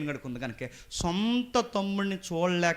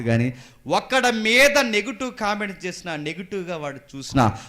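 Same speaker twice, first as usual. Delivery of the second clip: tag; 6 semitones higher, 10 dB louder than usual. Acted. Preacher's emphatic warning.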